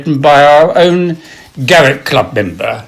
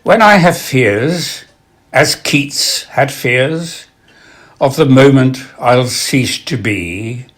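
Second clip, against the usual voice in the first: slow, wistful verse, lifting on the memories; poetry recitation; slower than usual. Acted. Reciting a club member's late poem to an audience, slow recitation.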